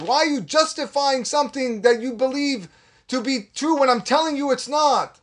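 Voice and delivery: a firm divine challenge; God rebuking Abraham. Retold or imitated. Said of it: "What HaKadosh Baruch Hu is telling Abraham".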